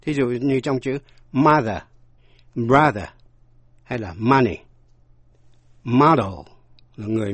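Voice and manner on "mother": "mother" with an open "ah" in the first syllable; stressed "ah" vowel in "mother"; open A sound. Shown as a demonstration. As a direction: say "mother" as MAH-ther. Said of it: "phát âm A".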